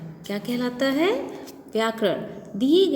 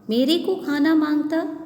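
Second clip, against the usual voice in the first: put-on higher, louder childish demand; mock wrong Hindi; 5 semitones higher, 4 dB louder than usual. Shown as a demonstration. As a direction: ham up the bad grammar a little. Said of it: "ये सुनने में भी सही नहीं लगता".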